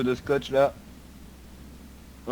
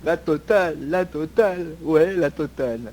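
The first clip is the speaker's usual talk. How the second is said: mock echo; 4 semitones higher, 3 dB louder, slower than usual. Cop echoes suspect mockingly.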